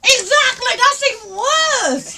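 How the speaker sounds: high, loud cry of outrage; loud, high-pitched indignation; indignant outburst. Real, not acted. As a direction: exclaim in protest, stretching the last word. Mock-jealous outburst at him.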